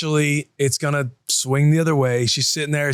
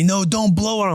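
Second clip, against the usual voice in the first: imitated toddler protest, pitched higher; mock toddler yell; 6 semitones higher than usual. Three-year-old refuses dad's help with hot food, higher mock yell. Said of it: "She's yelling at me".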